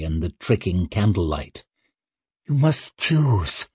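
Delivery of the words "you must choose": slow, higher-pitched urging; insistent witch. Acted. Witch telling the girl to decide, insistent. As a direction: press it on her slowly.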